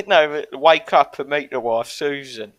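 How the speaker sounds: loud mock British geezer; Brexit geezer accent. Riffing on the Brexit meme with friends, hammed-up British accent. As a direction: put on a broad British hick accent. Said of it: "like, the Brexit geezer one".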